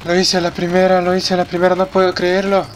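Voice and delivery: real triumph. Real, not acted. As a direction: shout it out like you just won. Beat the challenge first try.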